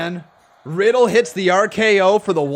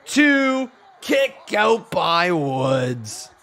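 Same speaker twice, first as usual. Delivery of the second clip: a higher, louder cry of shock; shocked shouts; 5 semitones higher, 3 dB louder, slower than usual. Real, not acted. Commentator reacting to a knee to the head, shocked shouting. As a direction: gasp and yell at the big knee. Knee strike and near fall.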